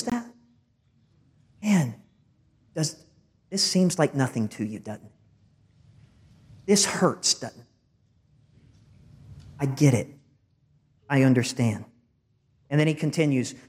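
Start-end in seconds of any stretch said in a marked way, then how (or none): 1.6-11.8 gentle, spaced-out empathy; understanding. Retold or imitated. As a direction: let them know you share the hurt. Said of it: "He's acknowledging how they feel".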